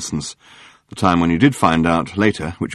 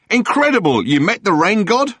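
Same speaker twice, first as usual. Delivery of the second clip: gushing amazement; 12 semitones higher than usual. Acted. Murray hearing Arthur met the rain god, thrilled. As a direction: gasp it out like a scoop landed.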